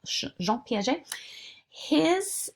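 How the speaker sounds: Jean Piaget said the French way, soft zh and stress on the end; lightly French Jean Piaget, gentle and unhurried; a touch of French on Jean Piaget; French accent. Shown as a demonstration. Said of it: "say it with a little French accent".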